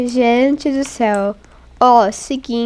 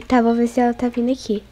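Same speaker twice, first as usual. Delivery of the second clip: ordinary delivery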